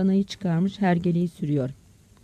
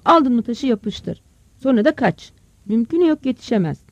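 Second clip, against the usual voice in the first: loud, somewhat raised scolding call; 3 semitones higher, 5 dB louder than usual. Acted. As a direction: call your scared son over, urging him. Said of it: "Ahmet'e seslendi". (oğluna yüksek sesle seslenme)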